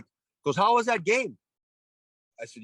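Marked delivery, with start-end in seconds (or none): 0.6-1.4 high, prodding coach voice; imitating TK. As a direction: lean in with fake friendly questioning. TK grilling him, retold.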